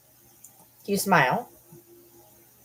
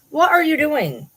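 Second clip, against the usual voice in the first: high-pitched questioning of a pet; 10 semitones higher, 4 dB louder than usual. Real, not acted. Catching the pet at something.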